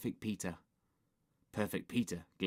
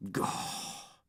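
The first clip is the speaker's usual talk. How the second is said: breathy, voiceless "gah"; exasperated groan; 6 dB quieter than usual. Acted. Henry thwarted by Mum, exasperated groan. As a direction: let out a frustrated breath.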